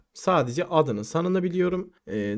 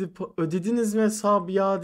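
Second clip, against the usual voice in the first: lightly voiced young woman, higher pitch; imitated girlfriend; 6 semitones higher than usual. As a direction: quote the girlfriend in a raised voice. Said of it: "Kız geldi". (kız arkadaşı taklit eden ince ses)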